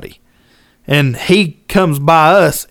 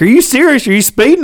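surprised; 9 semitones higher than usual. Retold or imitated. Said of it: "And they're like".

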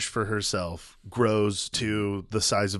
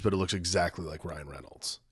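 confiding whisper; low, soft aside; 5 semitones lower, 8 dB quieter than usual. Real, not acted. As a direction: whisper it like a guilty secret. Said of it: "I'm not gonna lie to you".

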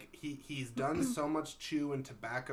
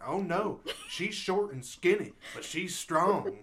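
rural farmer voice; 6 semitones higher, 7 dB louder, slower than usual. Retold or imitated. Voicing farmer about wife.

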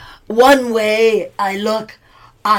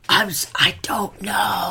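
ghostly whisper; 4 dB quieter than usual. Acted. Trapped ghost answers.

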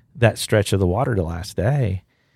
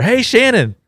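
retold holler; 13 semitones higher, 5 dB louder, slower than usual. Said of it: "these guys holler".

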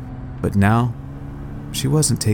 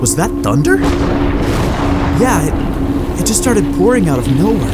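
shouting over storm; 8 semitones higher than usual. A narrator's reading.

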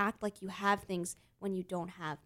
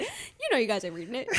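laughing pastor impression; imitating the pastor. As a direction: echo the preacher through a laugh. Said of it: "You sounded just like our pastor".

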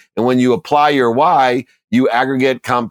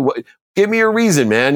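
sharp, much higher pitched challenge; exasperated demand; 8 semitones higher than usual. Retold or imitated. Coach challenging his student about the Lambo, exasperated. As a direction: push him hard for a real answer. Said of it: "And I get pissed".

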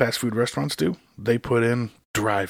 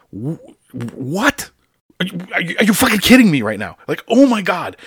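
high, loud furious disbelief; exasperated outburst; 7 semitones higher, 8 dB louder than usual. Real, not acted. Stuck in the drive-thru line, he yells in disbelief.

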